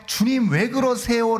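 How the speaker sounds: 높고 느리게 늘이는 가벼운 흉내 호소; 울며 매달리는 사람을 반쯤 흉내 내듯; 흉내 낸 부르짖음. Retold or imitated. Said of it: "라고 매번 소리쳐봐야". (주님께 울며 따지는 신자를 흉내 내는 느린 호소)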